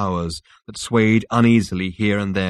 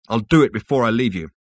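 louder, resolute statement with "I'll" contracted; firm; 3 semitones higher, 5 dB louder, faster than usual. Rooster tells Zaphod of his job, firm and louder. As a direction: state the intention forcefully, falling at the end.

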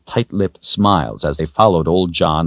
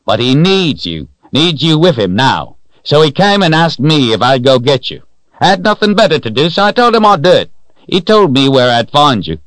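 put-on high, loud, hearty old-timer voice; merry old man, pitched up and boisterous; jolly old man; 10 semitones higher, 5 dB louder than usual. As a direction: play a jovial old fellow reassuring startled travellers. Voices jolly Old John explaining.

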